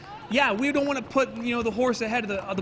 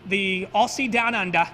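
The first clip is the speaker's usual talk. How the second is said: slow, hammed-up Australian accent, a bit louder; mock Australian accent; 4 dB louder than usual. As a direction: drawl it out in a mock Aussie accent. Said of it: "that's my best Australian accent".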